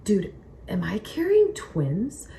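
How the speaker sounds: slow hushed whisper of disbelief; slow, voiceless whisper. Retold or imitated. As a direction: breathe it like a secret. Midwife and she wondering together.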